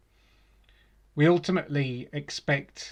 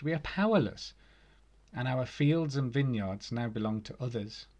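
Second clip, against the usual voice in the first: scripture reading. Acted. Reading Nehemiah aloud to the congregation, solemn and measured. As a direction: read the passage out as a solemn lesson.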